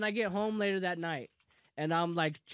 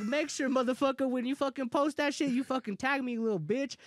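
higher-pitched, heated threat; retold angry warning; 4 semitones higher than usual. Retelling a warning to tag him, angry. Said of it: "I went off".

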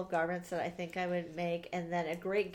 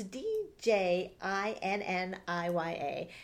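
spelling letter by letter; slower than usual. Shown as a demonstration. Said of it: "how you say that".

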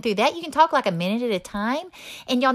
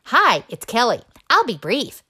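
robocall recording; 6 dB louder than usual. Retold or imitated. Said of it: "that freaking recording".

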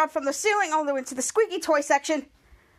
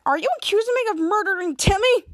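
higher, affronted question; indignant accusation; 5 semitones higher, 4 dB louder than usual. Retold or imitated. Dirk to employee about his goldfish, indignant. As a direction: act out being wrongly accused.

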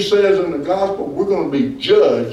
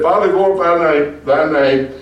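retold prayer. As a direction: quote the prayer again with a stumble. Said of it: "and said".

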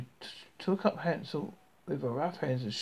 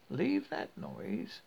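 witch voice; 6 semitones higher than usual. A narrator's reading. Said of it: "the old witch called out".

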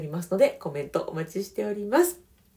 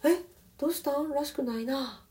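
higher, then softer toward the end; soft gentle reply; 6 semitones higher, 4 dB quieter than usual. Shown as a demonstration. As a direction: float it back gently. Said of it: "ふわっと".

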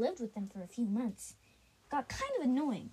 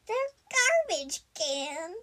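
loud, slow exclamation; 6 semitones higher, 8 dB louder, slower than usual. Acted. Mouthful of stew spat out.

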